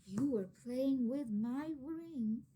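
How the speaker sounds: slow, gentle and smiling; smiling gently. Acted. Mama to Maria, gentle smiling. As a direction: say it kindly with a smile. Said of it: "smiling gently".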